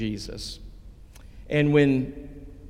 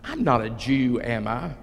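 sarcastic sneer. Acted. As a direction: say it with a mild mocking disbelief. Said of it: "you hear the sarcasm, you can hear the sneer in his voice".

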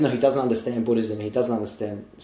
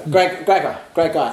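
emphatic praise; 5 semitones higher, 6 dB louder, slower than usual. Real, not acted. Emphatic praise of friend James.

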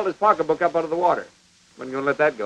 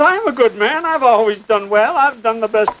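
high, louder mock indignation; startled protest; 4 semitones higher, 3 dB louder than usual. Old man defending himself to the preacher, startled protest. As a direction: lift the pitch and insist, imitating a startled man. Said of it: "He looked up at me startled".

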